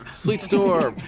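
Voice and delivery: slow theatrical villain menace. Acted. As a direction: growl the spell name like a villain. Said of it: "He's speaking his villain voice now".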